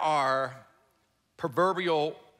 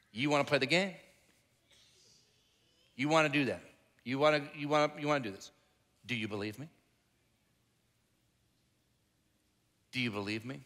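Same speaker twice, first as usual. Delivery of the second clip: softer, lower, teasing challenge; playful teasing; 3 semitones lower, 4 dB quieter, much faster than usual. Acted. Jesus teases Martha back, softly challenging. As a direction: needle her gently. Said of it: "Now he's mocking her".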